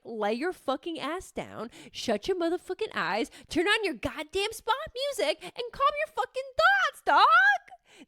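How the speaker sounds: bossy self-talk that builds into a shout; ordering herself to lie down and calm her thoughts, rising to a shout; tough-love inner drill sergeant. Retold or imitated. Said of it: "The Stephanie that I know is like".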